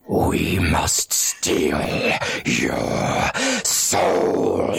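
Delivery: slow, deep sinister growl; ominous villain voice. Pretend. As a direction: intone it like a cult leader. Ominous soul-stealing threat.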